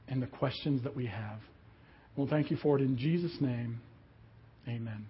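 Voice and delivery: unhurried prayer, settling softly at each phrase end; closing prayer. Real, not acted. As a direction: lead a congregation quietly in prayer.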